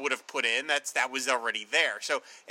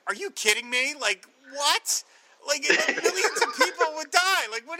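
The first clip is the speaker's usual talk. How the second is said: disbelief; 10 semitones higher than usual. Retold or imitated. Superman's stunned look at the plan.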